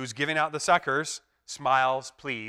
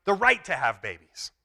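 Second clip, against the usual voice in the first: higher, louder proposal; conciliatory friend; 4 semitones higher, 7 dB louder than usual. Retold or imitated. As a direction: offer the compromise brightly. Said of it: "Another friendly friend says".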